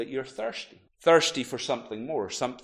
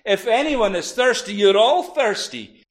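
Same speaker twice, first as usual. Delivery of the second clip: raised, higher preacher's voice as Jesus; loud, urgent public proclamation; crying out loudly; 6 semitones higher, 5 dB louder than usual. Acted. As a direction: call it out to the whole crowd. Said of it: "crying out in a loud voice".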